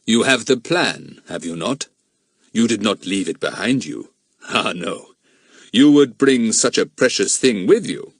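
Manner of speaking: lightly voiced stern, imperious man; menacing villain. Mister Eppie asserting his ownership to Jack, lightly imperious. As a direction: declare it with measured authority.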